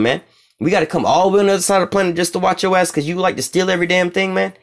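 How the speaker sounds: put-on a fed-up leader complaining he has to babysit a thief; Putin imitation. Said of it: "Vladimir Putin is like".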